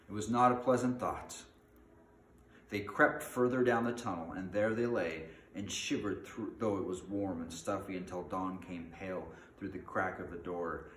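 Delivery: dramatic storytelling, fading at the end; story narration. A narrator's reading. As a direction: start strong, then let the tale trail away. Reads a fantasy story aloud.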